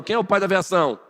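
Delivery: ordinary talk, nothing marked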